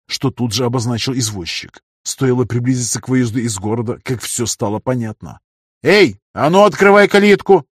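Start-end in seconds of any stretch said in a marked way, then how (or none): 5.9-7.6 high, loud bark at the gate guard; a councillor shouting down a bored guard. A narrator's reading. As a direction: yell it up at him, bossy. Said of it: "прикрикнул на скучающего стражника".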